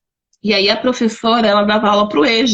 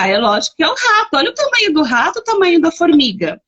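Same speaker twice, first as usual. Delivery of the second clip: lightly voiced child, higher and quick; quick, higher-pitched mock child reply; child's confident answer; 6 semitones higher, faster than usual. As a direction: imitate a child sure of the obvious. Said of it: "a criança fala".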